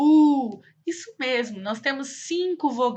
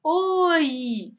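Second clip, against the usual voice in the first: drawn-out, higher hello; acted greeting; 4 semitones higher than usual. Teacher showing how she greets a person, acted hello. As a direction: greet someone with a long, lifted "oi". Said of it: "eu cumprimento ela falando".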